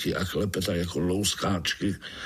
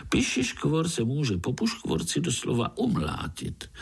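chatty frog; 6 semitones higher than usual. Acted.

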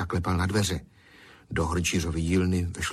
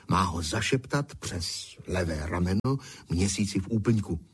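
ordinary delivery, nothing marked

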